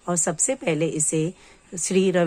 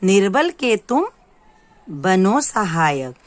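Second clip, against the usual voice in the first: निर्बल के तुम rising, then a pause, then बनो सहायक slow and falling; teacher reciting the poem line for children; slow recitation; 4 dB louder than usual. Shown as a demonstration. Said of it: "तो पहला हम पढ़ते हैं".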